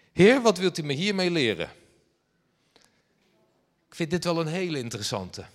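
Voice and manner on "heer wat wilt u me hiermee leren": loud, pleading, high cry to heaven; exasperated cry to God. Retold or imitated. Stranded man loudly asks God what the lesson is. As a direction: throw the question up to God in frustration. Exasperated prayer on the hard shoulder.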